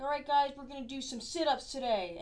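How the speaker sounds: upbeat trainer addressing class; pep it up like a workout host; fitness instructor voice. Retold or imitated. Mimicking fitness commercial host.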